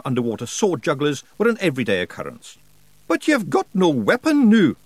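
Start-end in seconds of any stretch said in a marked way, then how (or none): 3.1-4.8 high, broad Scots wee man, cheeky and gruff; a higher pitched Scots brawler voice; Scottish pictsie Rob. Acted. Pictsie chief thanking nobody for thanks, in a high Scots voice.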